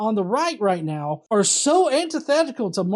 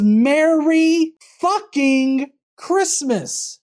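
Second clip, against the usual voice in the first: quoting Trump; 4 semitones higher, 5 dB louder, much slower than usual. Retold or imitated. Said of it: "the first thing he said was".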